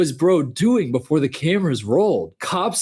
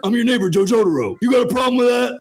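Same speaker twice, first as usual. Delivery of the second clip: anime dub voice; 6 semitones higher, faster than usual. Retold or imitated. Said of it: "English dub anime".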